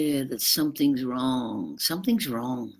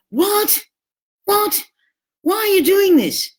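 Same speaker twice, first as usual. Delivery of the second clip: shrill, much higher, louder outraged What? What?; explosive rage; 7 dB louder than usual. Retold or imitated. Narcissist partner exploding at a gentle suggestion, mock rage. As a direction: blow up at a harmless suggestion, voice shooting high. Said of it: "There's an explosive rage".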